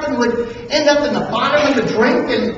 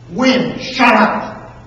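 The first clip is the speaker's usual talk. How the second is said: louder, firm rebuke to the wind; Jesus rebuking the wind with calm force; authoritative command; 6 dB louder, slower than usual. Acted. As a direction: order the storm to be silent. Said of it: "calmly, strongly, forcefully, authoritatively".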